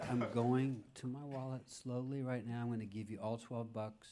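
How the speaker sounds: calm, measured director voice, softening. Retold or imitated. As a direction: talk a nervous mugger through it calmly. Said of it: "I was very calm".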